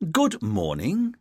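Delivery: slow, drawn-out schoolmaster greeting with a rising end; teacherly voice. Acted. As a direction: greet him like a strict teacher facing a pupil. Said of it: "in his most teacherly voice".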